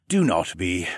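understated, sighing dismissal; resigned sigh. A narrator's reading. Raptor man brushing off sympathy, mildly resigned sigh. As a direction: let it out with a small sigh. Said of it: "he sighed".

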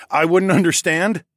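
chuckle, then throw the words back as a question; chuckling disbelief. A narrator's reading. Hero answering a heckler, chuckling incredulously. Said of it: "I chuckled and shook my head".

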